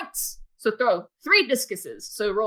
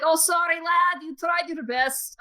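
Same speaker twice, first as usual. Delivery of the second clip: lightly voiced, higher-pitched man consoling a child; consoling announcer; 6 semitones higher than usual. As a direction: offer mock sympathy to the upset boy. Announcer consoles the crying boy.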